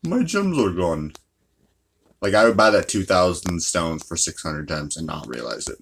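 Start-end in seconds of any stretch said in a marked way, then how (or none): 0.0-1.1 sudden high gasp, then a slow sad drop; mock dismay. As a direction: act shocked that the gems are gone. Mock dismay at a lost purchase.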